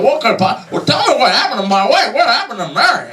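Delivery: high, urgent, desperate demand; frantic pleading. Retold or imitated. George begs the angel for news of Mary, high and frantic. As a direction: beg the angel to tell you.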